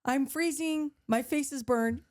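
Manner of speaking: high, laughing mock whine; whiny self-pity. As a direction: whine in comic misery.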